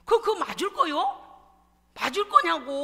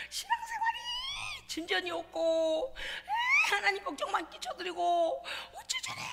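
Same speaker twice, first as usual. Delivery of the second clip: retold tearful prayer; 10 semitones higher, 3 dB quieter than usual. Retells crying in intercessory prayer.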